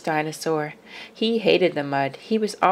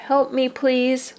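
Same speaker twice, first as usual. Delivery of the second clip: pleading cry; 6 semitones higher, slower than usual. A narrator's reading. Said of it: "the littlest dinosaur cried".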